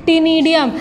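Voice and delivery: टीनिडियम beginning with a plain T sound; silent C. Shown as a demonstration. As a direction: say टीनिडियम with the initial C silent, starting on T. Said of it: "सी इसमें silent होता है". (टीनिडियम में शुरू का सी silent)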